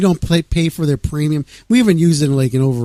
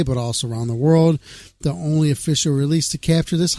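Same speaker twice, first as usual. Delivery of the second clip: music news read aloud in even phrases. Acted. Radio host reading a band's news to listeners, news read. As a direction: read out the band's press release.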